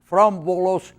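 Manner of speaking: put-on lightly accented old Greek immigrant, a touch of drama; a hint of a Greek accent as he remembers home; James, Greek immigrant. Ninety-six-year-old immigrant recalls leaving Greece for America, lightly Greek-accented dramatic reading. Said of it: "give us a glimpse of that dramatic reading".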